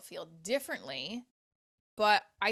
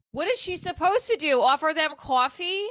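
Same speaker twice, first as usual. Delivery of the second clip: mock indignation; 9 semitones higher, 5 dB louder than usual. Mock outrage in defense.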